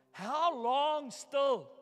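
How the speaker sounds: slow, stretched-out plea to God; drawn-out plea. Retold or imitated. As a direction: drag out each word, begging. Desperate prayer to God.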